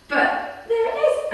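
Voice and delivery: can't hold back the giggle; laughing reveal. Real, not acted. Unveiling the mushy cat wreath to the listener, laughing slowly.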